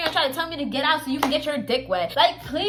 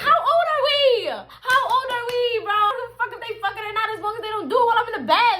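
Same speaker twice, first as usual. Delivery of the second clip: laughing exasperation; 6 semitones higher than usual. Retold or imitated. Exasperated reply to friend.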